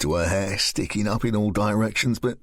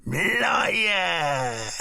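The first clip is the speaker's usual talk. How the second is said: higher, crying shout; higher, tearful scream; 7 semitones higher than usual. Acted. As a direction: hurl the accusation. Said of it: "she screamed".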